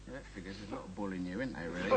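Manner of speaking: ordinary talk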